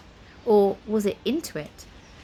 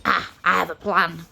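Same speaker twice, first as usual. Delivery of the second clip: hearty Scottish warrior bellow; 3 semitones lower, 3 dB louder than usual. A narrator's reading. Spoon announces his plan, bellowing.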